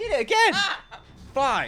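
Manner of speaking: very high, loud, swooping outburst. The speaker suddenly exclaims at Merv, voice jumping really high. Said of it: "my voice went really high there".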